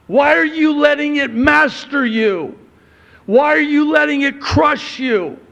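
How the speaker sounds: impassioned preacher's shout, high-pitched; real yelling. Real, not acted. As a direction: yell it at the congregation, pleading with them. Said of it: "Why am I yelling at you?".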